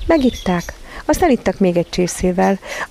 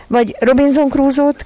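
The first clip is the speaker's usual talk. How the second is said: put-on higher, lively child's voice; eager child's question; 8 semitones higher, 4 dB louder than usual. A narrator's reading. Michael asking Mary about her outing, eager. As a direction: ask it keenly, pitched up high.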